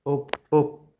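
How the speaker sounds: sudden high, loud yelp; excited shout. Real, not acted. Streamer yelping at a big win, excited shout. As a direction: burst out at the hit.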